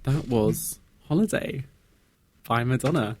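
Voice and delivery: slow, drawn-out ASMR-like announcement; ASMR style. Real, not acted. Host back-announcing the song, slow ASMR style. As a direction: take it slowly, the singer's name now carefully correct. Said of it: "that was A S M R again".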